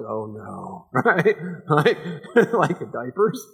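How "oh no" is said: dismayed oh no. Retold or imitated. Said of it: "I'm like".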